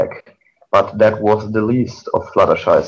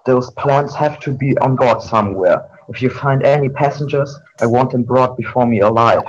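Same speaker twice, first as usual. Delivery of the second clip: commanding shout; 4 semitones higher than usual. Acted. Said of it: "turned to the Storm ponies and shouted".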